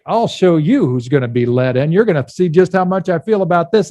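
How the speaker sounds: mildly acted threat, building in pitch; a touch of mock anger; mad householder. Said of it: "voice from inside is mad".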